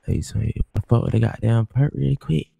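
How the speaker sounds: shouting at a friend to get out of the way, loud and pushy; loud demand. Pretend. Loud, insistent order. Pushing drugs on others in roleplay.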